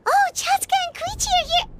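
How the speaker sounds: high, bright surprise at friends arriving; light up seeing them; excited greeting. Acted.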